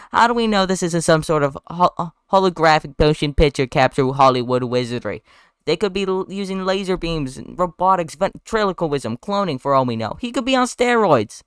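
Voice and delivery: high-pitched southern lawyer's rant; Southern courtroom bluster, climbing high at the end; exaggerated southern drawl. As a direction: reel off accusations in hammed-up Southern. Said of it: "exaggerated southern drawl".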